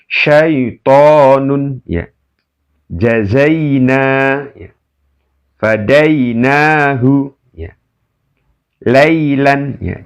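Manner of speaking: each word read slowly, the ai kept short; slow lin drill. Shown as a demonstration. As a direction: recite the word list like a tajwid teacher. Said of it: "Dibaca apa adanya ya".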